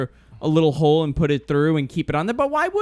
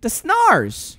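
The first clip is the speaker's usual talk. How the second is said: mock mumbled answer; 7 semitones higher, 4 dB louder than usual. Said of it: "He goes".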